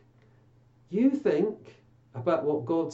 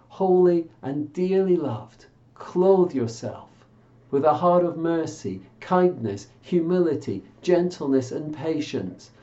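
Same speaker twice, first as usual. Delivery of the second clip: measured pulpit reading of Colossians; scripture reading; 4 dB louder than usual. Acted. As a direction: read each phrase with solemn weight. Reads a Bible passage aloud.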